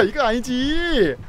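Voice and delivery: ordinary talk, nothing marked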